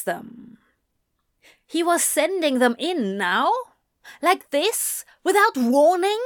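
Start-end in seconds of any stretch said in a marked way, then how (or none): 1.6-6.2 higher, rising incredulous questions; mounting panic at being caught unprepared; alarmed disbelief. Acted. Character's alarm at imminent encounter.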